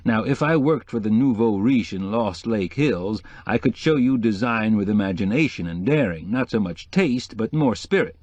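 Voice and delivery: a hint of a chatty society decorator; lightly voiced decorator. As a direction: lightly play the opinionated decorator.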